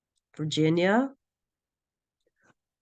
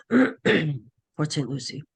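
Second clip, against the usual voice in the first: hoarse from a cold; scratchy voice, fighting a cold; raspy voice; much slower than usual. Real, not acted. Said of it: "I apologize for my raspy voice".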